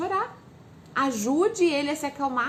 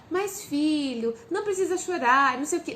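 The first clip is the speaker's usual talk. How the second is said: fussing over a tantrum; 3 semitones higher than usual. Shown as a demonstration. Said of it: "você tá dando audiência pra aquele show".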